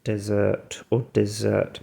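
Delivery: "Desert or desert." with DEZ-ert first, then dih-ZURT; slow test of both stresses in "Desert or desert."; two pronunciations. Shown as a demonstration. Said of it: "they've just got two different pronunciations".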